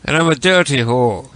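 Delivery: ordinary talk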